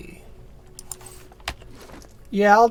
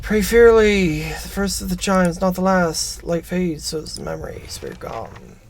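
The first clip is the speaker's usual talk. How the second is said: game text narration. Acted. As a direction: start firm, let the voice sink to a hush. Reads game text aloud.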